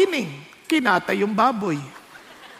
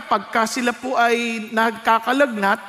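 ordinary talk

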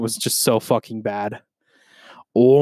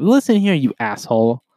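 loud, raised-pitch scold; mock scolding; 4 dB louder than usual. Real, not acted. Podcaster addressing the friend who stood him up, scolding. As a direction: call him out sharply.

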